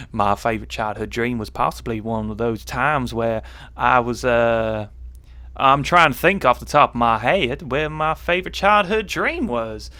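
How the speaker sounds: put-on American Southern voice; Southern American accent. Stalling over a viewer's question, Southern American accent. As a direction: think aloud in a shaky attempt at Southern American. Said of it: "in the accent of the South of America".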